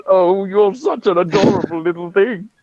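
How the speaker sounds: adoring coo with a little laugh; chuckling, doting baby-talk; cooing over a kitten. Acted. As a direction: fuss fondly over a tiny pet.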